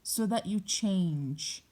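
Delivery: slow, deliberate repeat of a mother's words; mom's pointed response. Retold or imitated. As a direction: draw out "So that you change". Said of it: "That's her response".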